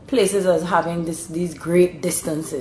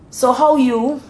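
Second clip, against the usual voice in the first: higher Bajan greeting with rising end; Bajan dialect; 7 semitones higher, 4 dB louder than usual. Shown as a demonstration. Showing how Bajans greet one another, Bajan dialect. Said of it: "Bajan dialect now is a corruption of English".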